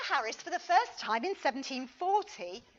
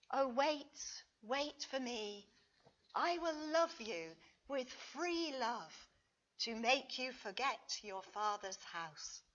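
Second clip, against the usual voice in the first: recited hymn verse. Acted. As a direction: speak the verse like a tender promise. Reads a hymn verse aloud.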